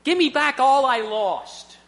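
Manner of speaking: put-on a boy in trouble begging God for everything back; desperate pleading prayer. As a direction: plead with God, making a deal. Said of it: "in there saying".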